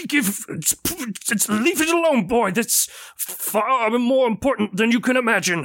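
lightly voiced stern old man; a hint of a stern elder; warning old man. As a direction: warn the boy off firmly. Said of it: "He's like".

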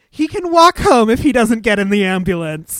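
loud retold wifely refusal; loudly acted-out exasperation; exasperated wife.

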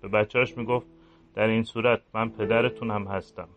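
a guilty priest brooding alone at night; quiet, regretful inner voice of a priest; remorseful priest. Acted.

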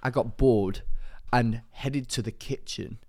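lightly put-on London roadman accent; attempted roadman accent. Reading a listener's letter as requested, in attempted roadman accent. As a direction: read it out in a half-hearted roadman accent. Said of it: "can you do your, do it in a roadman accent".

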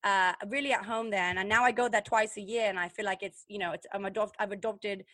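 badly faked British accent; a hint of a put-on British voice. Host pretends Molly's visits changed her, badly faked British accent. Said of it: "that's a horrible accent".

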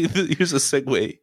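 mock quote. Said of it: "you don't say".

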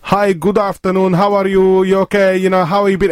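light imitation of English with a Spanish twang; chatty greeting with a hint of a Spanish accent. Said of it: "with a proper heavy twang on it".

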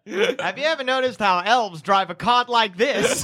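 laughing through a comic's setup; hammy observational comedian; stand-up comic voice. Acted.

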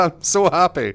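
mock overjoyed. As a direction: ham up being thrilled. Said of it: "You go".

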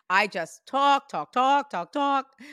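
lightly voiced chatterbox mom, chanting; nonstop talker. Medium quotes mom about her chattiness, insistent chant. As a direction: repeat talk in an insistent, rising-pitched run. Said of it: "nonstop talking".

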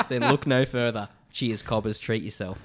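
hammed-up broad Australian accent; proper Aussie accent. Podcaster reading out a beer fan's review, proper Aussie accent. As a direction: read it like a true-blue Aussie. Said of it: "a proper Aussie accent".

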